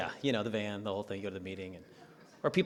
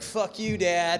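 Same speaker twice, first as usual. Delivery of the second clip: put-on bratty kid yell; 7 semitones higher, 7 dB louder, much slower than usual. Kid yells at his dad.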